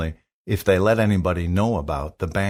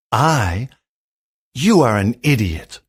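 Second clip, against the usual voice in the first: angry; 3 dB louder than usual. Acted. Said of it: "the king cried out angrily".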